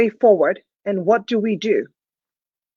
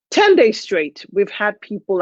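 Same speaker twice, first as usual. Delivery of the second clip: ordinary talk, nothing marked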